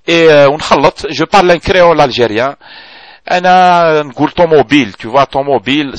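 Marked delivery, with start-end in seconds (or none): 4.3-5.0 "طوموبيل" said the Algerian way, as tomobil; Algerianized French word. Shown as a demonstration. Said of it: "c'est algérien, c'est français". 5.3-6.0 "طوموبيل" said the Algerian way, as tomobil; Algerianized French word. Shown as a demonstration. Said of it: "c'est un français algérianisé".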